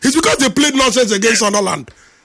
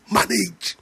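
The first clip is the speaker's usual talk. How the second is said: much softer, dropped one-word urging; soft reassurance; 8 dB quieter than usual. Shown as a demonstration. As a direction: say "manage" gently, almost under the breath. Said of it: "As painful as it's gonna be".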